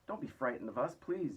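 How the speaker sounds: reassuring call to the crowd. A narrator's reading. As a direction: call down kindly. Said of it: "James called out".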